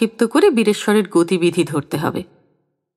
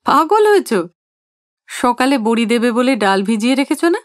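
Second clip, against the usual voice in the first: amused husband mocking the threat; merry teasing laugh in the voice; 3 semitones higher than usual. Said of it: "হেসে হেসে বলেন".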